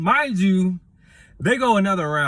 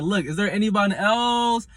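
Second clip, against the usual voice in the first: high, shouting challenge; calling out; 12 semitones higher than usual. Retold or imitated. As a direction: yell it across the room. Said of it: "She's like".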